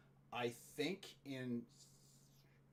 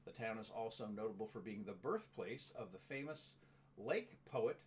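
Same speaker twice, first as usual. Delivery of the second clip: informational read-out. Real, not acted. Reads out a town description.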